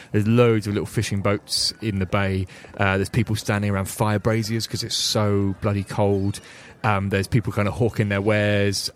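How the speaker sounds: steady descriptive game master narration; scene setting. Acted. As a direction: set the scene of the docks evenly.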